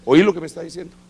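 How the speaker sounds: insist, making him listen; emphatic repeat. Retold or imitated. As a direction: apostle pressing the point a second time, emphatic. Boss repeats the question, louder second.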